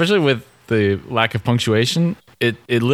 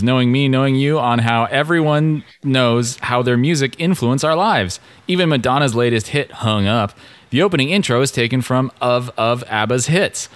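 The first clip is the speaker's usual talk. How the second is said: lightly voiced robot reading, a little raised; robotic voice; 2 semitones higher than usual. Reading an all-caps fan review to co-host, lightly robotic voice. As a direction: read it out in a mild robot voice. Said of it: "read it in a robotic voice instead".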